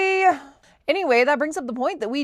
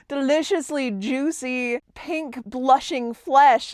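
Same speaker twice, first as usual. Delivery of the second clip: sultry ad read; much slower than usual. Retold or imitated. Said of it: "it was like".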